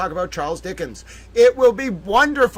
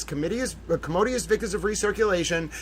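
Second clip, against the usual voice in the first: softer, quick Joyce phrase; hushed phrase; 6 dB quieter, faster than usual. Shown as a demonstration. Host rehearsing his Joyce line to the dog, hushed. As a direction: murmur the quote like a private joke. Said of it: "I'm gonna say the phrase".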